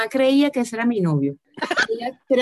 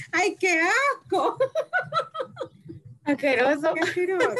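slow, higher "ay, qué asco"; higher, drawn-out disgusted groan; 8 semitones higher, 4 dB quieter than usual. Real, not acted. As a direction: draw out the disgust. Reacting to a gross fetish.

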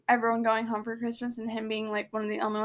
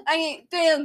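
higher, louder mock Brooklyn accent; thick Brooklyn accent; 5 semitones higher, 4 dB louder than usual. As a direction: do an exaggerated Brooklyn accent through laughter. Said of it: "in his thick Brooklyn accent".

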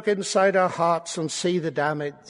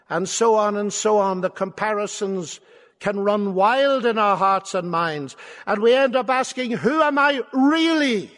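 raised, driving preacher's voice; impassioned preaching; 4 semitones higher, 4 dB louder than usual. Real, not acted. Preacher to a congregation on wrestling with identity, impassioned.

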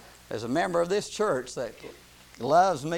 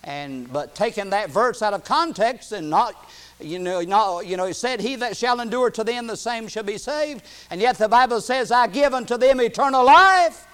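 raised voice climbing to a loud finish; building preaching; 6 semitones higher, 8 dB louder than usual. Real, not acted. Preacher countering a verse taken out of context, building preaching. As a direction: argue with mounting force.

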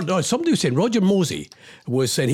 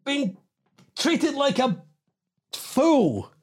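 weary exasperation; 6 semitones higher, slower than usual. Real, not acted. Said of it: "Oh, man".

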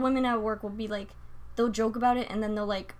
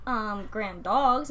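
slow, tentative suggestion; hesitant dodge; much slower than usual. Retold or imitated. Dodging the grandbaby question, slow and hesitant. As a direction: drag it out awkwardly. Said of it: "And I'm like".

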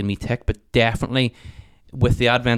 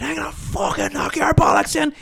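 imitating threatening neighbour.

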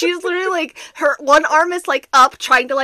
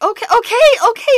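hurried okay; 9 semitones higher, 7 dB louder, faster than usual. Retold or imitated. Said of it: "I'm like".

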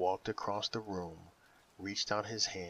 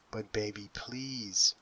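lame plea; slower than usual. Acted. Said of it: "was his lame plea".

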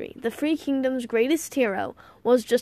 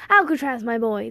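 exclaiming; 4 dB louder than usual. Acted. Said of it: "the man at the doorway exclaimed".

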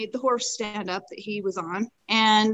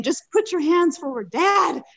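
high, desperate re-enacted plea; retold urgent yell; 8 semitones higher, 3 dB louder than usual. Rider pleading with father-in-law as horse backs up, retold yell. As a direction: yell it, climbing higher on the last word. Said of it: "So I yelled to him again".

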